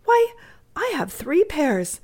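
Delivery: put-on high, slow childlike amazement; dismayed. Little Amy astonished by the mittenless boy, dismayed. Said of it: "exclaimed Amy in dismay".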